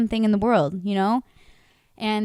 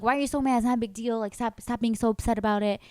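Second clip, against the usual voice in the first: mock Beata voice; 3 semitones higher than usual. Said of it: "I'm doing your voice like that".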